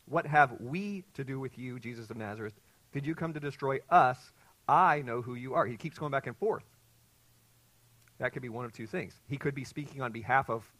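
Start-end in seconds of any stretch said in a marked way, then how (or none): 0.1-5.7 louder, forceful demon cry. Retold or imitated. Preacher reading the demon's cry to Jesus. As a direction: call it out as the possessed man. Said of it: "But he cried out".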